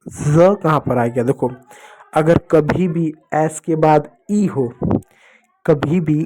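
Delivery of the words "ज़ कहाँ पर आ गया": slow, drawn-out pupil's protest; imitated pupil, dragged out slowly; pupil's objection. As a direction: voice a puzzled student objecting, stretching the words. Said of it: "अब कहोगे".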